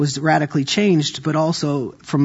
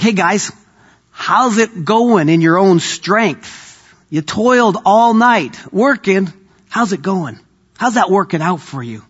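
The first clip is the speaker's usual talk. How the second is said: higher, slow, teasing; teasing Jesus voice; 4 semitones higher than usual. Acted. Jesus teasing the tired fishermen, slow and higher. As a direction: needle them gently about their own strength. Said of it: "He's like".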